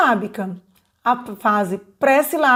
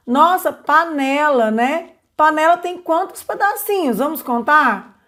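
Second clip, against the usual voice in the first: delighted praise; 5 semitones higher than usual. Shown as a demonstration. Teacher praising a child's answer, delighted. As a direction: cheer the child on and invite counting.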